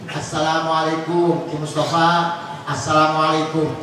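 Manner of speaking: lightly acted caller at the door, low pitch; visitor greeting. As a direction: call a low, measured greeting to the host. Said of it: "Bapak kalau bertamu".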